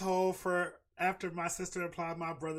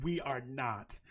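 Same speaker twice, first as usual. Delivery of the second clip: monotone; 4 semitones lower, 4 dB quieter, much slower than usual. Retold or imitated. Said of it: "in the most monotone voice".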